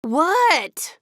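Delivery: high, loud sharp What; irritated shout. A narrator's reading. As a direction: snap it out, annoyed at another interruption. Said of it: "shouted Ducky and Bunny".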